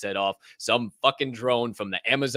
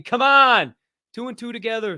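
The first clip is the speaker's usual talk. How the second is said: incredulous outburst; 11 semitones higher, 6 dB louder than usual. Real, not acted. Mocking metaverse shoe care.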